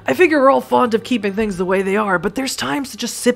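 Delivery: tough Boston guy voice; Boston accent. Acted. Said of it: "I go right for the Boston voice".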